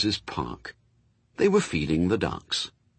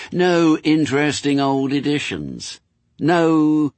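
persuasive demon, relentless; 6 semitones higher, 3 dB louder than usual. Acted. Demon tempts angel with earthly losses, relentless. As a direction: pile up each loss high and insistent. Demon's dialogue in narrated story.

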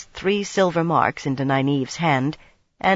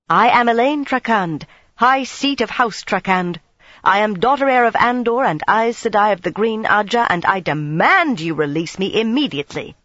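proud and imperious, raised voice; commanding demand; 5 semitones higher, 4 dB louder than usual. Acted. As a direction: announce your titles and demand it. Queen out of patience demands release.

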